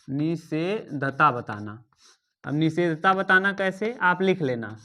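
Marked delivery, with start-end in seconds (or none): 0.1-1.8 slowly, lower, syllable by syllable; slow dictation. Shown as a demonstration. Teacher dictating a term for students to write, slow dictation. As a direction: draw it out for note-taking.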